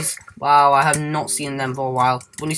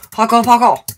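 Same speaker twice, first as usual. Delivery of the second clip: excited shout; 7 semitones higher, 9 dB louder than usual. Real, not acted. Jumping, calling out.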